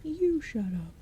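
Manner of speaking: high, sulky goblin retort; high-voiced goblin snapping back; stupid goblin. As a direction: snap back like a dim goblin. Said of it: "said the stupid goblin".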